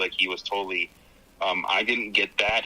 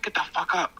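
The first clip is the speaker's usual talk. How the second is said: higher pitched mock yell to wake someone; a hammed-up wake-up yell; 9 semitones higher than usual. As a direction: yank them out of bed in a put-on voice. Character yelling someone awake.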